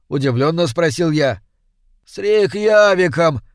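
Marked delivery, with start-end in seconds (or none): 2.0-3.4 a drawn-out anguished moan, raised; groaning. A narrator's reading. Lost stranger groaning for his vanished city, drawn out. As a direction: stranger moans the city's name in despair, slowly. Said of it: "простонал незнакомец".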